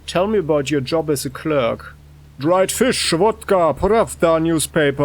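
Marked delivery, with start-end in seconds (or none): 2.4-5.0 mild shouted blurt of random words; involuntary outburst. Acted. Clerk asked about his job, sudden involuntary outburst.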